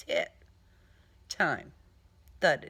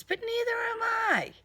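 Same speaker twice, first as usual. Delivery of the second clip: defiant outburst. Acted. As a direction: fling it back with defiance. Defiant answer to Mayhem.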